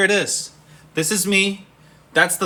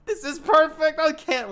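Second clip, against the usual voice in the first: excited whisper; 11 semitones higher than usual. Real, not acted. Thrilled whisper to self.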